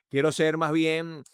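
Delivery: lifted, drawn-out enthusiastic delivery; energetic, enthusiastic. Shown as a demonstration. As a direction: raise the voice with lively inflections. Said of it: "subo el tono de voz".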